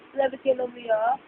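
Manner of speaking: soft quick murmur. Real, not acted.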